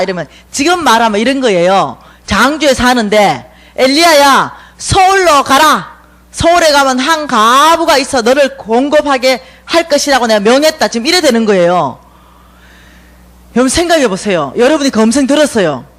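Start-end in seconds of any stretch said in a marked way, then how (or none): 3.8-10.9 God commanding. Acted. God commands Elijah, shouted.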